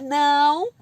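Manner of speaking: long, loud, drawn-out no; shouted no. Shown as a demonstration. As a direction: cry out a warning no. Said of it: "em vez de você gritar".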